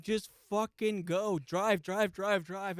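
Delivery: high, insistent backseat command; desperate urging. Retold or imitated. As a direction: pound out the repeated order, pleading. Retold frantic order to driver.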